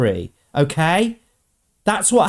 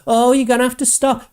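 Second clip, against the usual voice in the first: higher, quick mocking whine; mocking activist; 6 semitones higher, faster than usual. Vlogger mocks activists lecturing China, quick high mock whine. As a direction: parrot the activist with a sneer.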